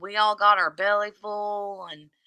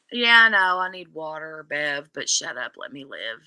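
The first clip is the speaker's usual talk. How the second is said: low, trailing-off sass; a mild sassy persona dropping low at the end; pretend sassy voice; 4 semitones lower than usual. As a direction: brush someone off in a put-on voice. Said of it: "Who am I pretending to be".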